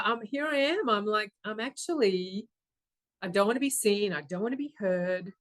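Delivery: ordinary talk, nothing marked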